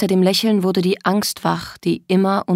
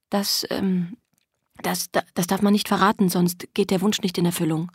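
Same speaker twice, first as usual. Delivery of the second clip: halting, a little softer; hesitant answer; 5 dB quieter than usual. Acted. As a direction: stumble nervously into the answer. Verlegene Antwort der Figur. (zögerlich, stockend)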